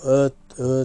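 うー as a schwa in place of a clear "a"; reduced schwa sound. Shown as a demonstration. Showing how the vowel gets reduced, schwa sound. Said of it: "うー、うーって省略して".

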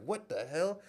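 high-pitched, baffled retold reaction; caught off guard. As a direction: act out being thrown by it. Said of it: "it just caught me off guard".

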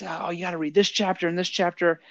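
retold enthusiasm, pushing a book; getting excited. New teacher showing books to his buddy, excited. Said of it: "I'm getting excited".

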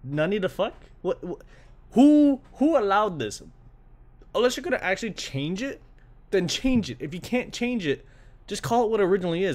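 high, loud outraged rant; a fan fuming at the translators. Retold or imitated. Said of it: "was just like".

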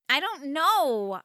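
slow, drawn-out groan of a reply. Acted. Girl groaning to mom that she doesn't know, slow and weary. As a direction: drag it out, fed up. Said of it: "I groaned".

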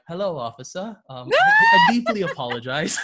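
polite, high-pitched mock British accent; put-on British accent. Speeding driver apologizing to the officer, put-on British accent. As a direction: pull out an exaggerated British lilt, rising loud on the apology. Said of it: "to sound British, right".

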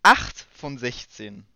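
loud, slow countdown call; loud slow announcing. Pretend. Counting progress aloud.

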